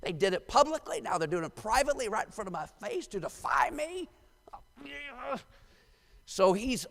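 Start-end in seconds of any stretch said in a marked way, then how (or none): 0.0-4.1 strained, indignant sputter of an offended king; mock irate king. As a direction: act out a livid king's disbelief. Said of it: "He's irate beyond expression".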